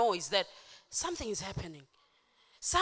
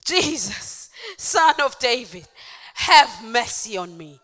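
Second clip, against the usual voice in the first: loud, measured plea; crying out; 12 dB louder, slower than usual. Acted. Blind man refusing to be hushed, crying out. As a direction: call out firmly for mercy. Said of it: "he cried out all the more".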